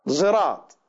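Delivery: زراط with the s sound tinted toward z; ishmam reading. Shown as a demonstration. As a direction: blend the s into a z in زراط. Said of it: "بإشمام الصاد زايا". (زراط بإشمام الصاد زايا)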